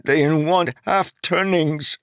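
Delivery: high, subdued youthful voice; muted Keeg. Acted. Young bridgeman answering Jarek, muted and dejected. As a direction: mumble the excuse like a dejected boy. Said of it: "Keeg replied mutedly".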